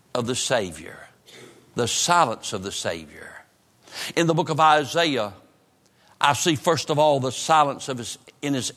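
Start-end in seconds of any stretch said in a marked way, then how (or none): 0.1-3.4 whispered, dropping the voice to almost nothing; hushed whisper. Real, not acted. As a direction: breathe the title out in a hush. Sermon title dropped to hush.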